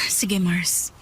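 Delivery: quick hushed reply; whispered. Acted. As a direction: whisper it so Jeric won't hear. Whispered reply to friend leaving.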